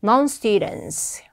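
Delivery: "non-students" very slow, every S sounded; clear S sounds. Shown as a demonstration. Teacher models the word for students, "non-students" with each S audible. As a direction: keep the final S in "non-students". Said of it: "S 발음 빠뜨리지 말 것".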